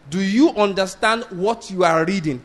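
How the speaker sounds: slow, deliberate question leading to "reading"; emphatic question. Retold or imitated. Philip questioning the Ethiopian eunuch, measured and emphatic. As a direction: repeat it measuredly, word by word, stressing "reading". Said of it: "emphasize there is the word reading".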